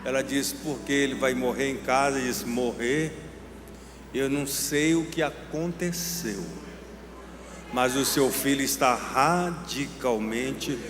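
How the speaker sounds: low, soft, measured storytelling; hushed and deliberate, with long pauses; solemn testimony. Retold or imitated. Preacher retelling a mother's visit to the doctor, solemn.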